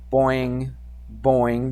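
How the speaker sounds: springy vocal boing, spaced out; softly voiced spring noise; imitated boing. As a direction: make a bouncing-rope sound effect. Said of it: "that's the sound that it made".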